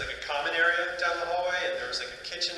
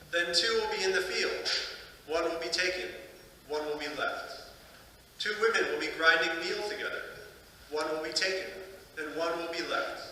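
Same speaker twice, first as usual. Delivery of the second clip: measured, solemn Gospel reading with pauses; scripture reading; 3 dB quieter than usual. Acted. Priest reading the Gospel to the congregation, measured scripture reading. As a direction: read it out formally, phrase by phrase.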